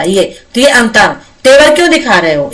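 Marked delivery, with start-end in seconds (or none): 1.4-2.5 "तेवर क्यों दिखा रहे हो" as a higher-pitched question, falling at the end; questioning intonation. Shown as a demonstration. Teacher demonstrating a challenge, "तेवर क्यों दिखा रहे हो" in raised questioning intonation. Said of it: "इस तरह से बोला जाएगा, क्वेश्चन टैग".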